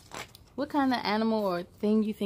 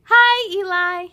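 louder calling greeting across the playground; shouting hello; 8 semitones higher, 9 dB louder than usual. Acted. Peyton calling to her cousin Eli, a friendly shout. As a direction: call out to a friend. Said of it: "shouts Peyton".

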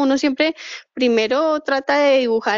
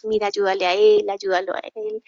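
friendly leader. Retold or imitated. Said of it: "líder afiliativo, como que".

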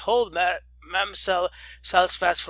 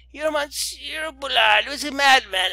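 slow, high, louder "madman" shout; indignant shout; 7 semitones higher, 6 dB louder than usual. Acted. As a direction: shout it down like an outraged old lady. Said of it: "cried the old lady at the top of her voice".

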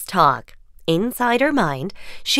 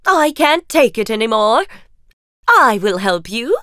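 indignant fairy godmother; 3 dB louder than usual. Acted.

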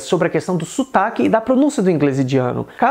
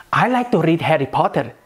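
"Harry Potter" with rolled Indian Rs; Indian-accented example sentence; Indian English accent. Shown as a demonstration. Teacher demonstrating the R for learners, Indian accent. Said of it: "Eu posso dizer então no inglês indiano".

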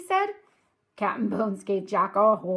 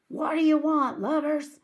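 loud, higher pirate demand; pirate captain; 8 semitones higher, 4 dB louder than usual. Acted. Captain Bones glares at his young captives, demanding roughly.

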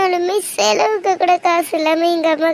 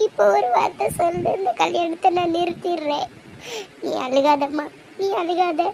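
quiet, tender plea for forgiveness; hushed, tender apology to her weeping daughter; soft pleading apology; 3 dB quieter than usual. Acted. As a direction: beg her gently, softly. Mother begs daughter's forgiveness softly.

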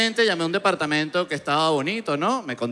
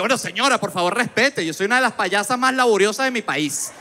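higher-pitched offended protest; hammed-up wounded pride, pitched up; mock indignation; 6 semitones higher than usual. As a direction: demand respect, comically affronted. Mock indignant reply to landlady.

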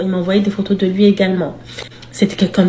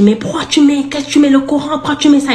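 higher, agitated mock demon; man getting worked up, higher agitated voice; 5 semitones higher than usual. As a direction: get worked up over the Quran. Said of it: "Il commence à s'exciter".

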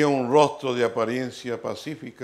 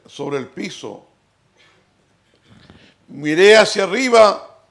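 loud, raised preaching voice; prédica enérgica; 5 semitones higher, 7 dB louder than usual. Real, not acted. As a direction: preach it out with force, pausing between phrases. Predica a toda fuerza. (predicando con fuerza, voz alzada)

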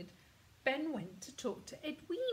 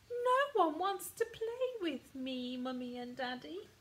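sadly; 4 semitones higher, 3 dB louder than usual. Acted. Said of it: "he said sadly".

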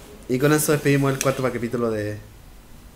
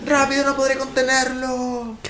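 dramatic panic; 10 semitones higher than usual. Pretend. Mock dramatic game moment.

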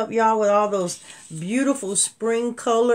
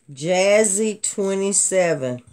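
slow repeat; slower than usual. Shown as a demonstration.

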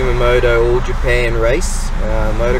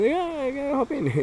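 put-on high-pitched young woman; squeaky cheerful girl voice; high girly voice; 7 dB quieter than usual. Retold girls offering a lift.

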